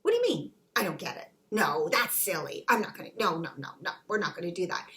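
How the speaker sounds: mock disbelief, pitch jumping up then dropping; shocked denial. Person told to isolate, brushing it off in disbelief. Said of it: "And you go".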